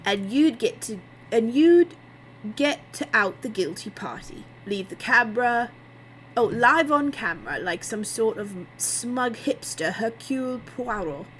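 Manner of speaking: sardonic. A narrator's reading. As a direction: needle him, drawing out the insult.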